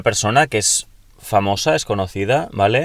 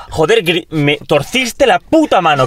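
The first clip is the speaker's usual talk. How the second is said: slow, higher pained protest; mock pained complaint; 6 semitones higher, slower than usual. Friend re-enacts complaining about his twisted hand, slow and pained. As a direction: drag out the complaint like it still hurts. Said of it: "Yo gritando en plan".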